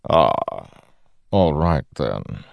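lightly voiced menacing god; a hint of a smooth villain; Odium voice.

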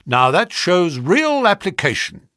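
high, loud approval; enthusiastic cry. A narrator's reading. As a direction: praise him heartily as a brisk agent. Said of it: "he cried".

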